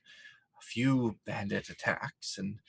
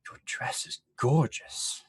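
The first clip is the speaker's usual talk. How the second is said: breathless gasp; 4 semitones higher than usual. Acted. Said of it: "like, gasps".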